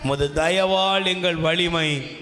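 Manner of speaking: very slow psalm reading, first word drawn long; intoned, reverent verse recital; solemn scripture reading. Real, not acted.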